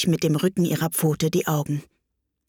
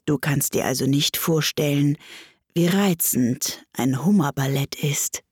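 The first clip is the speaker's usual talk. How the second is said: lightly voiced, slightly low storybook turtle; a hint of a sorrowful turtle character; mournful Mock Turtle; 3 semitones lower than usual. Mock Turtle telling Alice about the lobster quadrille, lightly voiced and mournful.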